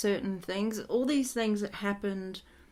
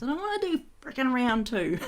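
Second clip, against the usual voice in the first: higher, mildly grumpy retort; cranky dad; 5 semitones higher than usual. Retold or imitated. Dad refusing another life, mock cranky. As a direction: imitate a fed-up dad refusing. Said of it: "He's got the shits".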